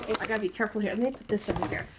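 strained under a heavy box; carrying heavy load. Real, not acted. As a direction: talk while setting down something heavy. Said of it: "This is heavy".

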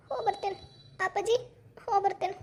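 soft, subdued goodbye on the verge of tears; tearful farewell. Acted. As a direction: say goodbye quietly, holding back tears. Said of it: "ಹಂಗ್ ಅಳಬಾರ್ದ್ವಾ". (ಅಳು ತಡೆದುಕೊಂಡು ಮೆಲ್ಲಗೆ ಬೀಳ್ಕೊಡುಗೆ)

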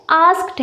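आस्क्ड with the stress on the a and a final t. Shown as a demonstration. Teacher modelling for students, आस्क्ड stressed on a. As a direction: say आस्क्ड as ask-t, leaning on the a. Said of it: "ए पे हमको stress देना है".

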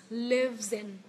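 "lives in" with the z carried into "in"; linked z. Shown as a demonstration. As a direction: join "lives in" on a voiced z. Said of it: "nối âm z em nhá".

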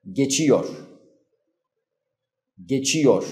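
geçiyor with ç pressed firmly between the teeth; teacher stresses the ç in geçiyor; full ç. Shown as a demonstration. نطق geçiyor بتشديد الأسنان على ç. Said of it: "نعطي حقه بحالة تشديد الأسنان".

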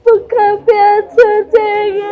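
keen the words through tears; sobbing lament. Real, not acted. Widow mourning that her husband died hungry, sobbing sung lament. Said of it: "ਰੋਣਾ ਨਹੀਂ ਹੁਣ".

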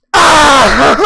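loud high scream of panic; real startled scream. Real, not acted. Gamer shot by an enemy, screaming loud and high. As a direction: yelp like you just got shot.

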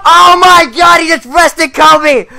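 loud stunned yell; excited shout. Real, not acted. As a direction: shout it, thrilled. Commentator erupts at big play.

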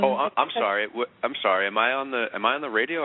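sudden flustered apology; startled, loud and sheepish; caught off guard. Real, not acted. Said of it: "I just got lost in my pesto eggs here".

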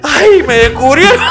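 a high, slow, put-on "ay, me descubrieron"; caught-out clerk. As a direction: ham up the guilty clerk getting caught. (vendedor pillado en falta, voz aguda y lenta de burla)

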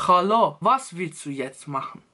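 russischer Akzent. Shown as a demonstration. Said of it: "dieser russische Akzent".

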